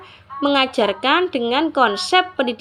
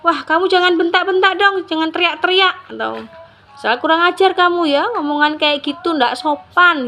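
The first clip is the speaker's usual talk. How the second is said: scolding parent; 4 semitones higher than usual. Shown as a demonstration. A parent snapping at a child who yells back, mild scolding. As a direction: tell the kid off sharply, as a demo. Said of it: "Orang tua jangan bilang begini".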